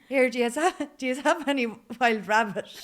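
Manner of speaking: a light, hammed-up Mullingar accent; thick Mullingar accent. Retelling asking the Dublin butcher for rabbit, mild Mullingar accent. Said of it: "in my thickest Mullingar accent".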